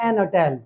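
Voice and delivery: एन अटेल, linking N straight into the vowel; old silent-H pronunciation. Shown as a demonstration. Teacher showing old article usage: एन अटेल without H. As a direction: drop hotel's H in एन अटेल. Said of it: "इसके साथ पहले लगता था".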